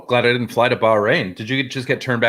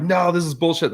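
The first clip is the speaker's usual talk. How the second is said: raised pitch, acted-out protest; mock indignant; 5 semitones higher than usual. Film director refusing a customs shakedown, mock indignant.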